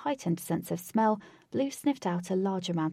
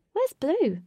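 calling out; 9 semitones higher, 6 dB louder than usual. Acted. Katie calling out.

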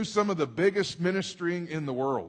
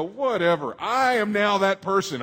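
mock shrug, then higher, louder admission; dismissive teen; 5 semitones higher, 6 dB louder than usual. Pastor mocking his young self to the congregation, shrugging. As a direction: brush it off like a teen. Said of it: "I used to hear that and go".

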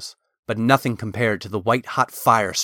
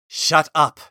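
snapping shout; 5 semitones higher, 4 dB louder than usual. A narrator's reading. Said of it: "Talon said out loud".

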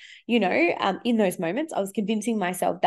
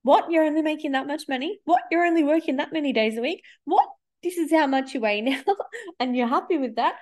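mock-incredulous past self, a little higher; lightly voiced shocked former self; past self, appalled; 5 semitones higher than usual. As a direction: play her horrified younger self. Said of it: "me from four years ago".

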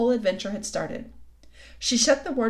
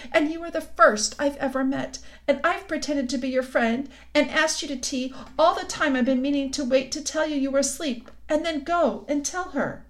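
Tumnus pitched a little higher, earnest and upset; a guilty fawn pouring out his confession; fawn confessing; 5 semitones higher than usual. Acted. Guilty fawn confessing to Lucy, lightly raised pleading voice.

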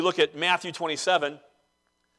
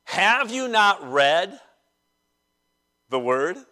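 slow, pointed mock question; sarcastic question; slower than usual. Jesus challenging the Pharisees, sarcastically. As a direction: ask it slowly, pausing before the last words. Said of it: "It's sarcasm".

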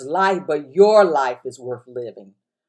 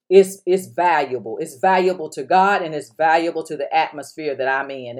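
affirmation to repeat; 2 semitones higher than usual. Shown as a demonstration. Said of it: "Look, say".

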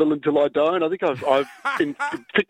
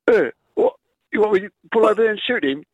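Jason Statham impression; 5 semitones higher, faster than usual. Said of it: "can you do Jason Statham".

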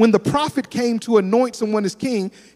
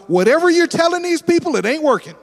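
high, louder, fed-up cry at God; frustrated outburst; 10 semitones higher, 4 dB louder than usual. Retold or imitated. Preacher retelling his frustrated complaint to God, louder and higher. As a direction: let the frustration spill out. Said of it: "what I told God was".

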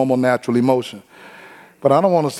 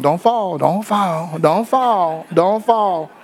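worried mother; 4 semitones higher, slower than usual. Retold or imitated. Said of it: "The mother's always wanting".

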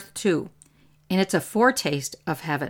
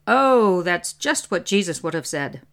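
sarcastic. Retold or imitated. Spiritual director mocking the priest's scolding, sarcastic. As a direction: sneer it as fake praise. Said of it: "said very sarcastically".

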